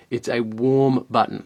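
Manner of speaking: "warm" leaned on, slowed and drawn out; slow down and land on "warm"; stress on warm. Real, not acted. Reviewer clarifying his point, stress on "warm". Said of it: "Let me just make that clear".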